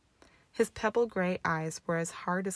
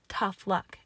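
mocking echo. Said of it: "Draco echoed".

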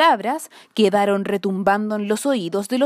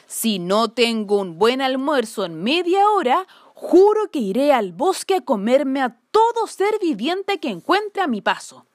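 loud bear voice. Acted. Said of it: "decía a viva voz".

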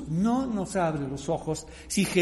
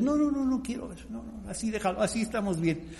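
mock refusal to see; 3 semitones higher, 5 dB quieter than usual. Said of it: "no todo el mundo quiere ver".

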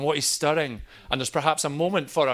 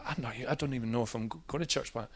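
flustered; 3 semitones lower, 10 dB quieter, faster than usual. Retold or imitated. Flustered reply to the prayer man.

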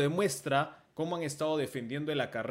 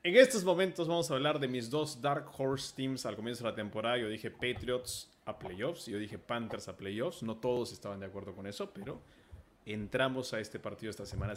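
hammy stage actor; 2 semitones lower than usual. Acted. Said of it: "con este tono solemne".

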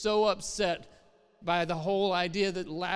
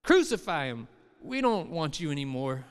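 louder, harsher crowd demand; angry crowd cry; 4 dB louder than usual. Retold or imitated. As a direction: turn on him, a hostile crowd. Crowd turning on Jesus.

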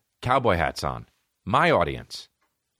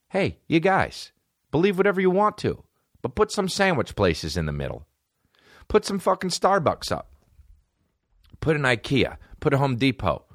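mock appeal; 5 semitones higher than usual. Calling out to Auburn locals.

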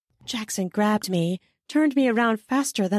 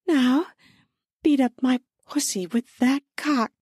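higher, eager plea; pleading; 5 semitones higher than usual. Acted. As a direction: urge your partner on, begging. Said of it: "I pleaded".

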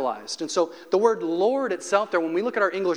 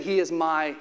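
slow reverent claim; 3 semitones lower, slower than usual. Real, not acted. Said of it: "David is saying".

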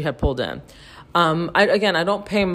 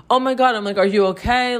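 higher, startled call of concern; alarmed; 6 semitones higher, faster than usual. Retold or imitated. Finding the neighbor face down, alarmed high call. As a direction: gasp it out, then check on her.

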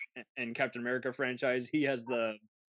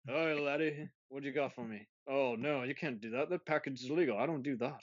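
mock Scottish accent. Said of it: "the accents would be all over the place".

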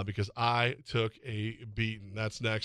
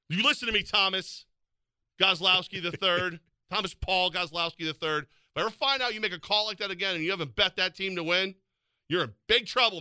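mock-stern dad scolding, raised pitch; fear of God voice; 6 semitones higher than usual. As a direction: lay down the law like an angry parent, in jest. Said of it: "Fear of God voice, man".

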